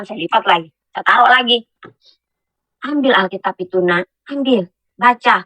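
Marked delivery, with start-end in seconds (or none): 2.8-5.4 mysterious voice. Retold or imitated. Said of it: "ada satu suara".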